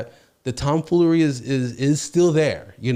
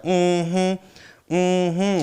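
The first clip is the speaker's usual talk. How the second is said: a dismissive, sassy mm-hmm pitched a bit high; girl returning to the group with attitude, imitated sassy hum; stank attitude; 4 semitones higher than usual. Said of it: "with that stank attitude, like that".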